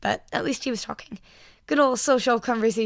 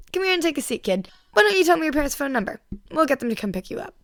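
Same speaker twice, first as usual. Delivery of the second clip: Mike voice; 6 semitones higher, 4 dB louder than usual. A narrator's reading. Mike's bright upbeat voice.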